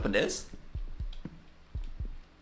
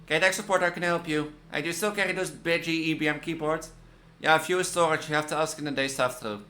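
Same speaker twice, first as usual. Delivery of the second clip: lively, higher than own chat; reading game dialogue; 6 semitones higher than usual. Acted. Support agent helping a caller, acted dialogue read-aloud. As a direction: voice the tech support call.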